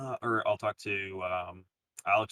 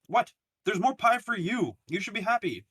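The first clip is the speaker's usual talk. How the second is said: mock exasperated; 11 semitones higher, 4 dB louder than usual. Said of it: "It's like".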